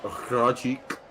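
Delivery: Rajic with a rolled Spanish flair; Spanish accent. Shown as a demonstration. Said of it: "that was my Spanish accent".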